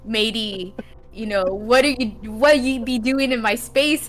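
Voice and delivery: lightly voiced pirate talk; a hint of a pirate challenging an intruder. Pirate asking a miner about his space, lightly imitated pirate. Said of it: "talking to me like a pirate".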